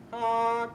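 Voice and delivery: loud high car horn honk. Pretend. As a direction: blare it like a horn. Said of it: "start honking the horn".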